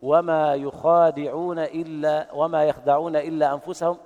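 slow chant contrasting يخادعون and يخدعون; reading variant. Shown as a demonstration. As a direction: recite يخادعون against يخدعون, stretching the a in يخادعون. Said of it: "قرأ الكوفيون".

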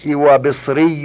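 وبصري with short "i" after the b, bisri; kasra pronunciation. Shown as a demonstration. Reader lists irregular nisba forms, وبصري with kasra. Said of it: "بالكسر".

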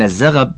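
"الزغب" as az-zaghab, a on z and gh; two short a's. Shown as a demonstration. Reader giving the word's root, careful "الزغب" as az-zaghab with two a's. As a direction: say "الزغب" with a in both syllables. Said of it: "بفتحتين".

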